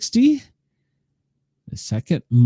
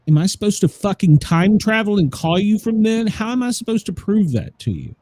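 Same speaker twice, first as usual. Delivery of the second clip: retold angry retort; 7 semitones higher than usual. Retold angry reply on phone.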